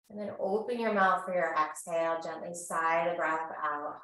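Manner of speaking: calm, measured yoga-teacher voice; guided breathing. Real, not acted. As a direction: gently guide them through each breath, unhurried. Leads guided breathing practice.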